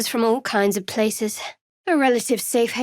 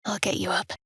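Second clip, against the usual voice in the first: soft hushed stay calm; whispered reassurance; 2 semitones lower, 5 dB quieter than usual. Acted. Helping a downed friend up, soft whisper. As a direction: whisper to steady them.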